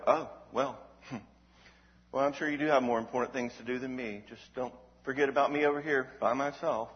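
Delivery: mild passive-aggressive sulk; a hint of a sulking Eeyore laying on guilt; guilt-tripping whine. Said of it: "you hear the anger in that?".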